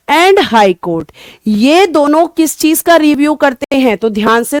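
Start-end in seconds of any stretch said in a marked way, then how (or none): 0.1-1.1 slow repeat. Shown as a demonstration. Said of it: "यानी कि supreme court".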